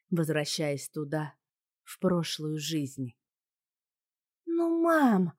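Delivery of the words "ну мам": put-on high, loud teen whine; whiny daughter. A narrator's reading. Daughter whining at mom from the back seat, high whine. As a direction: whine like a sulky teenage girl. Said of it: "хныкала дочка".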